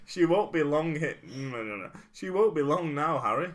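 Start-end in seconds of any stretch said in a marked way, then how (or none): 0.1-1.2 posh 1930s crowd banter; old-timey newsreel voice. Acted. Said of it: "our impression of the great song". 2.1-3.5 posh 1930s crowd banter; old-timey newsreel voice. Acted. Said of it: "our impression of the great song".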